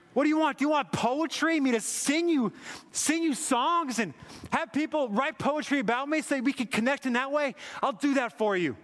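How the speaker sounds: God's passionate offer. Retold or imitated. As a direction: preach God's offer with building fervour. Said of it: "He's like".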